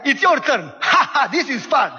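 high, laughing playful taunts; gleeful kids. Retold or imitated. Kids laughing at their video game in the back seat, gleeful. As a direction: giggle through it like carefree kids.

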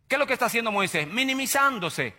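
normal talking voice

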